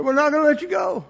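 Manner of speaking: high, loud, firm refusal; loud insistent vow. Retold or imitated. Lady telling the couple, loud and firm. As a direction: insist they won't let go. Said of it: "She said".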